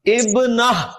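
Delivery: ابنہ closing on an audible h; final h, no t. Shown as a demonstration. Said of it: "ہا کی آواز نکالنی ہے".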